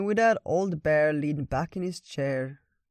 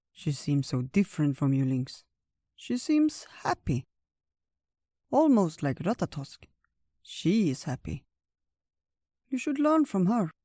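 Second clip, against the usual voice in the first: put-on admonishing old bear; 3 semitones higher than usual. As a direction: gently lecture an old friend, lilting.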